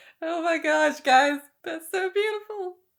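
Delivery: tearful, very high and loud, crying through words. Moved by a passage just read, speaker reacts to the group, tearful, crying while talking. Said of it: "Why am I crying?".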